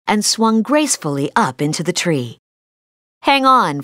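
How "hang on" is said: cry out. Acted. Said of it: "Flynn cried".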